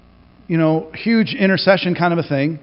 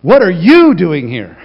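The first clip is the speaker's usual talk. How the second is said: loud, slow, laughing through it; amused disbelief, laughter in the voice; laughing question; 8 dB louder, slower than usual. Shown as a demonstration. God finding Jonah, loud laughing disbelief. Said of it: "here's one".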